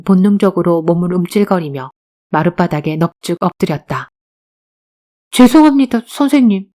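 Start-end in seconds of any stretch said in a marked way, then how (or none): 5.3-6.7 high, loud, hurried-to-submit apology; cowed apology. Acted. Boy prostrate before stern teacher, cowed apology. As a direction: blurt it out, intimidated.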